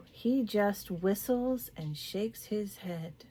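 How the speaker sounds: measured, deliberate book-reading voice; story reading. A narrator's reading. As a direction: read the passage aloud in unhurried phrases. Reads a novel passage aloud.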